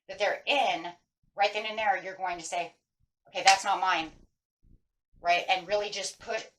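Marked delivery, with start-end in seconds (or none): 3.3-4.1 louder, emphatic "that's not mine"; firm emphasis. Shown as a demonstration. Empath setting a boundary before interacting, emphatic. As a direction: put real weight on "that's not mine". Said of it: "put a real big emphasis on that".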